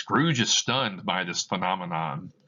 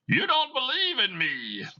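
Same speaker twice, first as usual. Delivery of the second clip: ghostly Marley voice. Acted. Dead partner answering Scrooge, eerie high ghost voice. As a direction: moan it out like a spirit.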